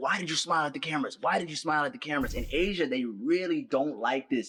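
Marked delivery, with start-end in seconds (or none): 0.0-2.3 furious, angry, accusing interrogating tone. Retelling a detective questioning him after cameras filmed him, imitating an angry detective. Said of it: "the detective was so angry. He's like".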